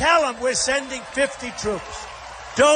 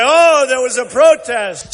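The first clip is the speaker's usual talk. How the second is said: mock press; 2 semitones higher, 3 dB louder than usual. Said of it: "the press will say".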